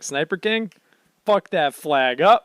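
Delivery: slow punchy captain's order; commanding order. Retold or imitated. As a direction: order the sniper to shoot. Luffy ordering, quoted.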